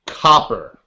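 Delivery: Boston-style copper said as kappa; Boston accent. Pretend. Mark saying copper in a Boston accent. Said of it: "as in kappa".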